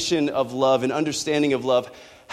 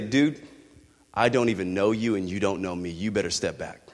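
angry rebuff; 7 dB louder than usual. Pretend. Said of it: "He's gonna say".

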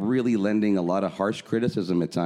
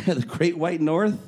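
amused echo; 8 semitones higher, slower than usual. Real, not acted. Echoing co-host's phrase, amused.

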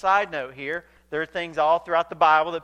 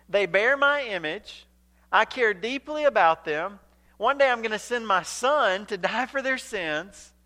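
raised, emphatic preacher voicing God; impassioned God; 4 semitones higher, 3 dB louder than usual. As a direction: plead the case forcefully, pitched up, phrase by phrase. Preacher voices God's impassioned argument.

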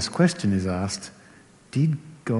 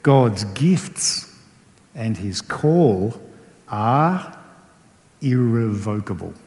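reading scripture; slower than usual. Retold or imitated. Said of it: "He says".

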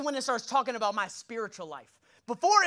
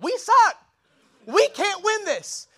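defeated coach; 9 semitones higher, 8 dB louder, slower than usual. Retold or imitated. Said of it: "coach went".

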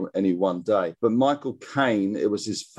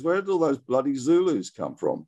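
quoted film line; 6 semitones higher than usual. Retold or imitated. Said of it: "the other memorable line is".

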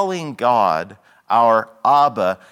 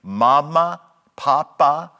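put-on childlike mama papa; 3 semitones higher, 4 dB louder than usual. Shown as a demonstration. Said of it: "the first word that a child learns to say".

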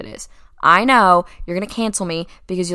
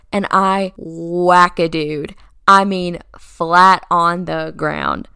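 slow and emphatic; 6 dB louder, much slower than usual. Real, not acted. Dramatic climax of the story.

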